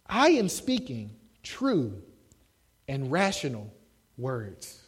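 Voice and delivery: slow, softening respectful reply; respectful, calm. Retold or imitated. Paul answering Festus respectfully, slow and softening. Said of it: "he says this very respectedly".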